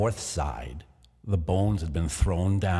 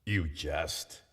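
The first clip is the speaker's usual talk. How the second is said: startled; 7 dB quieter than usual. A narrator's reading. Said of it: "he exclaimed".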